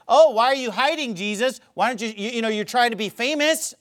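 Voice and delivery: lightly jeering, retold goading; mocking. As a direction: needle him like scoffing brothers. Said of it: "making fun of him, mocking him".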